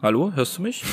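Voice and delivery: mock bad-connection hello; pretend calling out. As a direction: call out as if the line is bad.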